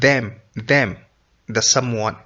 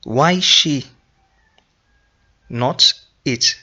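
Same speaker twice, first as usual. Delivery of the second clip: puzzled question; 3 semitones higher, slower than usual. Shown as a demonstration. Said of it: "Then again you ask".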